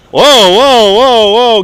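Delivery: whooping excitedly at the flood of super chats; excited whoa. Real, not acted. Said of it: "Getting crazy here with the super chats".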